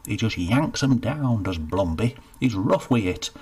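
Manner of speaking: country youth grumbling about rival hangman; resentful Cedric. Acted. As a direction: run down the rival. Cedric rants about Blumby.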